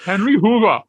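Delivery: loud, high-pitched Geordie impression; Geordie accent. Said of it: "I do love the Geordie accent".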